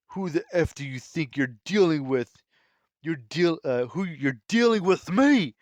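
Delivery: rising challenge, punched at the end; retold shout. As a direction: act out an outraged warrior, building to a loud, high finish. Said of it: "As Leonidas just shouts in".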